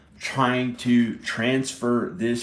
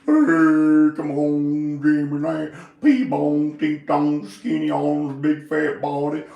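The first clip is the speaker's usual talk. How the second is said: loud, higher hammed-up redneck calling Jimmy; old redneck voice; 5 semitones higher, 7 dB louder than usual. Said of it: "Like an old redneck has this old fat nigga going on".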